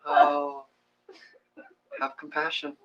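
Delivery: very high, strained laughing plea. Retold or imitated. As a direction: squeak it out through laughter. Laughing mock plea to self.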